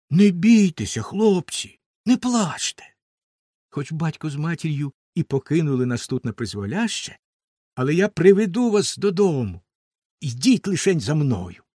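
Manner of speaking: calm the brothers down gently; reassuring boy. Acted. Хлопчик-мізинчик підбадьорює братів. (підбадьорливий хлопчачий голос)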